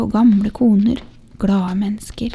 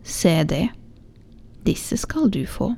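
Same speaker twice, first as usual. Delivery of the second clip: softer, gentle offer of the little shoes; quietly; 2 semitones lower, 4 dB quieter than usual. Acted. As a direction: say it quietly to the mother, almost to yourself. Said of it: "sa han stille". (stille og mildt)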